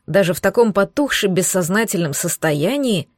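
ordinary delivery

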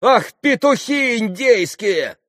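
high, loud scornful cry; mock them loudly; scornful outburst. A narrator's reading. Grushenka scolds the Poles. (громкий презрительный возглас)

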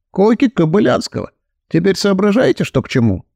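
a hint of a confiding know-it-all; reassuring narrator in dialogue.

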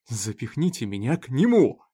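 loud, defiant cry; a desperate loud challenge; exclaimed. Acted. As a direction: fling the dare back at the sheriff. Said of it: "воскликнул в ответ Олсон".

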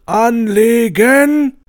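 commander's order. Acted. Commander barks at the firing squad, drawn-out shout.

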